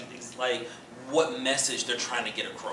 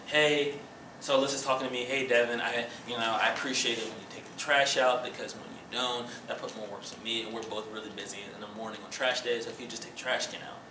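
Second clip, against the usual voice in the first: gentle request; 5 semitones lower, 7 dB quieter, faster than usual. Shown as a demonstration. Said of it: "a good way to say".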